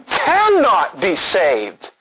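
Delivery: very slow, cannot hit hardest; slow, heavy emphasis on cannot; stress on cannot. Shown as a demonstration. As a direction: drag it out and lean on cannot. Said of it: "I want you to notice what's very important".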